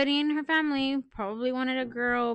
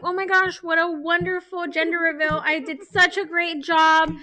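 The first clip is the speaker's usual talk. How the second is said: lightly gushing, a little raised and loud; retold self-congratulation, pleased as can be; mock happy delight; 2 semitones higher, 5 dB louder than usual.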